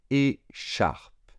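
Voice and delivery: whispered. Shown as a demonstration. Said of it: "se prononce chat".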